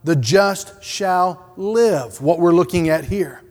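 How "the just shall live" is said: "the just shall live" slowed right down; drawn-out "the just shall live", landing on "live"; "live" weighted in a slow phrase; stress on LIVE. Shown as a demonstration. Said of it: "The emphasis there is upon".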